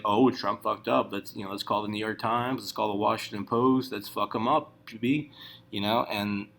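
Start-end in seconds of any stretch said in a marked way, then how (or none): 0.0-5.3 mock glee at the slip; gleeful leakers. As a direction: savour it like juicy gossip. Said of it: "But what they do is like".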